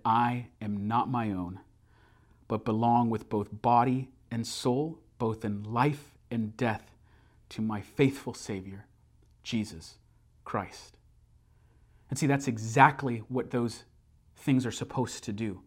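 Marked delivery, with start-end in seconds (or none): 0.0-11.0 slow hushed creed said together in danger; hushed recitation. Retold or imitated. Couple recite together facing crash.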